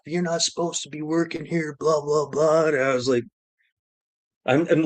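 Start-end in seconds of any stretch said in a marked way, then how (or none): 0.1-2.7 higher-pitched imitation of a telling-off; mock going off. Inspector going off at him in the garage, mock rant. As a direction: run through a mock rant. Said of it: "Bailey's going off".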